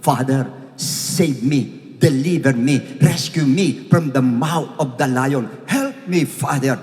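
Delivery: a hint of a child pleading; mild child's plea. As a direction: beg gently for rescue. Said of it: "soul and spirit niya sumisigaw na".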